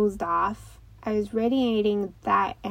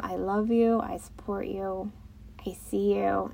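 loving affirmation; 5 dB quieter than usual. Shown as a demonstration. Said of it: "just telling them".

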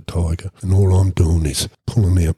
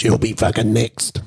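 higher-pitched threatening retort; acted threat; 6 semitones higher than usual. Captor threatening the storyteller who objected, agitated threat. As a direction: imitate an agitated captor's warning.

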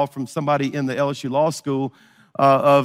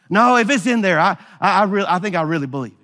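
raised, fast, insistent retort; bold; 2 semitones higher, faster than usual. Retold or imitated. To Muhammad, insisting he believes his Bible, boldly raised. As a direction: push back boldly, voice up. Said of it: "I decided to go a little bold".

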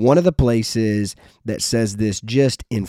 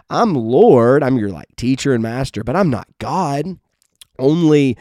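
mock protest; 2 semitones higher than usual. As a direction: play it as an exaggerated objection that never happened. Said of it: "Jesus doesn't say".

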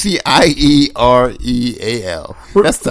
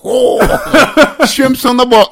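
high, hammed-up Australian accent; 7 semitones higher, much slower than usual. Co-host plays along after teasing, mock Australian accent. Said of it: "That's Australian".

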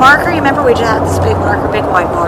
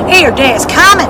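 mock preacher; 3 semitones higher, 3 dB louder than usual. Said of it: "I'm sure you've seen one".

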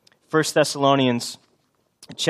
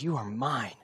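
tender voice of God; 9 dB quieter than usual. Acted. Preacher voices God, the creator.

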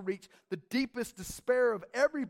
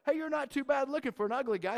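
backhanded compliment; 3 semitones higher, faster than usual. Retold or imitated. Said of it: "it's kinda like".

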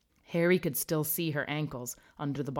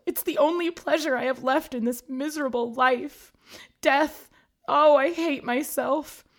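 high, loud wailing sob; wailing ghost; 10 semitones higher, 8 dB louder than usual. A narrator's reading. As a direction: wail it out like a miserable ghost. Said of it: "she wailed".

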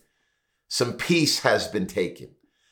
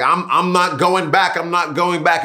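defiant refusal; 4 semitones higher, 3 dB louder than usual. Retold or imitated. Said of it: "some are like".

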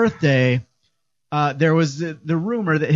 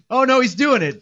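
laughing dismay; 8 semitones higher than usual. Retold or imitated. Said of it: "And then".

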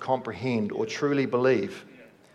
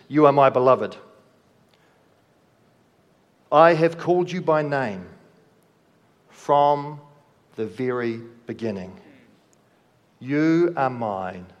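proclaiming God's words. Acted. Voicing God to the congregation.

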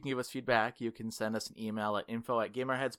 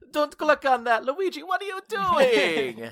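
high pleading yell; 9 dB louder than usual. Pretend. Mock yelling at Luigi.

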